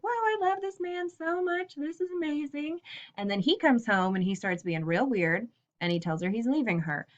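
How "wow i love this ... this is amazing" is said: high airy voice of a woman in love; dreamy besotted wife. Retold or imitated. Mary gushing about her husband in a high dreamy voice. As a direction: gush like a smitten young wife, pitched up. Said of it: "she's like".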